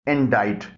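इंडाइट with silent C, "in-dite"; correct pronunciation. Shown as a demonstration. Teacher modelling for learners, इंडाइट without the C. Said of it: "इसकी सही pronunciation है".

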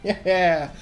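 high, loud laughing cheer; ecstatic cheering. Real, not acted. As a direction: scream with glee at the win. Winning the match, cheering.

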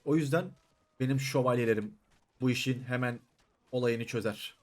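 a lightly hammed-up commander's rally; lord's speech. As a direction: announce yourself like a proud lord. Plays lord addressing his troops.

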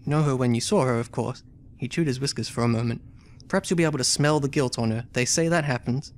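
reading the game text aloud as a story; story narration. A narrator's reading. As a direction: narrate it like an adventure novel. Reads story and character dialogue.

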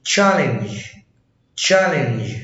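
"challenge" with an open A, not O; exception to O rule. Shown as a demonstration. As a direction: say challenge twice as a model, A before the double L. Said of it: "في شواذ للقاعدة دي".

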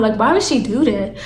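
low, soft, calm questioning. Retold or imitated. Talking to Mo about why she did that, calm. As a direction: keep it down, puzzled but calm. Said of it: "started talking to him calm".

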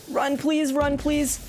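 high, pleading repeat. Real, not acted. Begging while fleeing.

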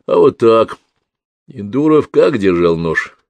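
put-on a canny old policeman leading the detective on; shrewd old overseer.

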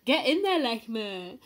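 cheering on Lechmet at the kiss. Real, not acted. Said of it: "cheering on the kiss".

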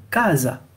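"casa" with a hard k and a z sound, ka-za; Italian pronunciation. Shown as a demonstration. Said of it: "on va lire".

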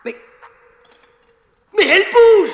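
sudden startled cry of discovery; surprised. Acted. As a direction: blurt it out, amazed. Discovers the stone slab moves.

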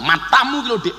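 mild mock scolding; angry. Shown as a demonstration. Husband cross with his wife, mock-angry retort. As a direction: snap at a spouse, lightly acted.

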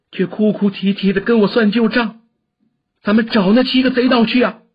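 high, fierce, grief-laden tirade; angry scolding. A narrator's reading. Senior sister scolds weeping brother toward revenge, angry and grieving. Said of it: "梅超风骂道".

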